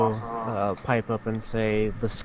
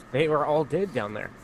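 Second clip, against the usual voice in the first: baffled protest, pitch climbing; puzzled, voice rising as it goes on; completely bewildered; 5 semitones higher than usual. Acted. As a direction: say it in higher-pitched disbelief. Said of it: "completely bewildered".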